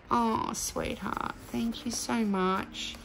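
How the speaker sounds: hushed, touched. Real, not acted. Touched by a card's message.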